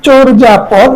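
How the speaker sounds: চর্যাপদ with চ said "cho"; o-like vowel. Shown as a demonstration. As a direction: round the first vowel of চর্যাপদ to o. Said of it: "অকে ও এর মতন উচ্চারণ". (চর্যাপদের প্রথম স্বর "ও"-এর মতো)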